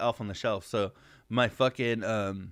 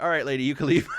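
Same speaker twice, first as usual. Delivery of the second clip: laughing dismissal; 3 semitones higher, 5 dB louder, faster than usual. Retold or imitated. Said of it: "they're like".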